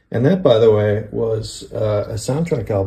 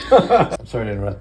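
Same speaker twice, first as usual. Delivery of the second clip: laughing. Real, not acted. Laughing while joking.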